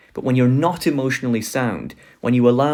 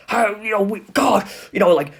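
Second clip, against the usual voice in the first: higher, half-hearted fanatic ranting; mock screaming crowd; 4 semitones higher than usual. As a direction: rant like a party zealot, but lightly. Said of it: "they're just screaming at the T V".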